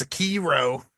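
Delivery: Sekiro said slowly and carefully, syllable by syllable; correct pronunciation. Shown as a demonstration. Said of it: "It's pronounced".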